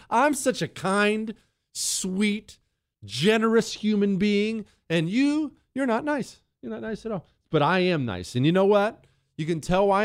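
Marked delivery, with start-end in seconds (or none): 0.1-7.3 mock hurt. Mock self-praise to listeners.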